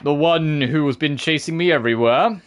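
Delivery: a lightly voiced sneering villain; mock menace toward the chaser; Patrick Seitz impersonation. Rat villain complaining about his pursuer, lightly voiced. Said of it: "my best Patrick Seitz impersonation".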